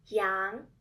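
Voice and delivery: "羊" loud, starting low and rising; second tone. Shown as a demonstration. Teacher presenting the second example word, rising second tone. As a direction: swing "羊" upward as a clear model. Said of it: "word with the second tone is".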